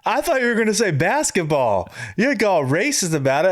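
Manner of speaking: high mock-offended comedian; imitating comedian. Comedian answering the fence joke, lightly mimicked offense. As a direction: play the comic as put out. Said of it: "Basically, like".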